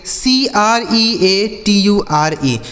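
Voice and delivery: slow letter-by-letter spelling; each letter given its own beat. Shown as a demonstration. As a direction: spell it out slowly for learners. Spells words out for learners.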